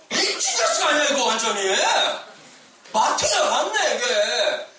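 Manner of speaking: mocking king.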